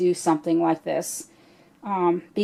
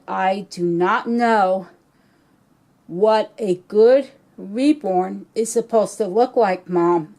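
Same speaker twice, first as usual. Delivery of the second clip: choked up. Real, not acted. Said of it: "I still get choked up".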